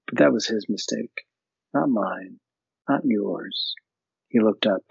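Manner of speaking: measured read-aloud narration; story reading. Acted. Podcast host reading a novel passage aloud.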